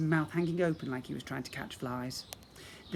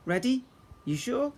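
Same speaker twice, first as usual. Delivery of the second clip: playful teasing question; 9 semitones higher, 4 dB louder than usual. A narrator's reading. Narrator teasing the listener.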